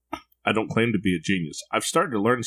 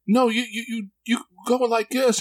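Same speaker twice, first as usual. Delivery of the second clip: imitating his son; 14 semitones higher than usual. Four-year-old shows dad his angry face, very high kid voice. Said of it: "And he says".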